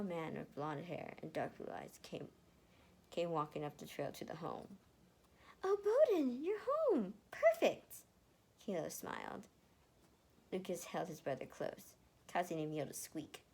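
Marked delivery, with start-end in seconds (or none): 5.6-8.0 much higher, louder delighted greeting; light up as he walks in; excited greeting. Acted. Kilo, greeting husband Bowden, much higher and louder delight.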